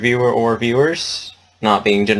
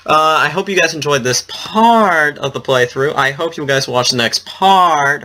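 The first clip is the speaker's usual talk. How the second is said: slow, higher, drawn-out outro voice; odd sing-song sign-off; 5 semitones higher, slower than usual. Pretend. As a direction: stretch the goodbye like a mock announcer. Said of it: "Why am I saying it like that?".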